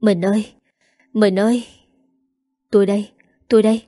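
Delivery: a touch of choked, weak pleading; wife, weak and just woken, calls to her husband, lightly choked. A narrator's reading. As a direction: call out to her husband through held-back tears, gently understated. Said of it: "nghẹn ngào mà nói".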